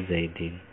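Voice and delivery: "Zaidin" ending in -in; jar ending -in. Shown as a demonstration. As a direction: say "Zaidin" with an i before n. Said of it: "ketika dia jar dibaca". (baca "Zaidin" dengan akhiran -in)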